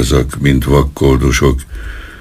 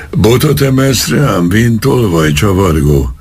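much higher furious outburst; foaming with rage; 8 semitones higher than usual. Acted. Policeman fumes at the old man for raising a stick, furious and high. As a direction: burst out furiously, voice leaping up. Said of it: "tajtékzott haragosan".

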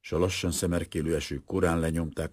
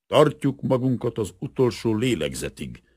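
louder, higher, a hint of a creaky old soldier; lightly voiced raspy old warrior; 7 semitones higher, 5 dB louder than usual. A narrator's reading. Old general remembered in the night, mildly raspy voice. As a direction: lightly suggest an old fighter's rasp. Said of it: "az öreg harcos recsegő hangját".

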